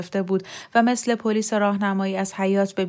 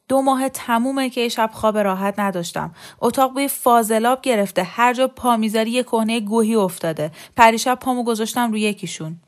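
raised, irritated complaining voice; exasperated rant; 3 semitones higher, 4 dB louder than usual. Acted. Sleepless husband to wife about the baby, exasperated. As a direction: grumble loudly, piling up the grievances.

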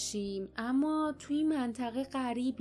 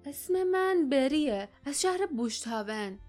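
stammering; 4 semitones higher, 3 dB louder than usual. Acted. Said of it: "باردا با لکنت گفت".

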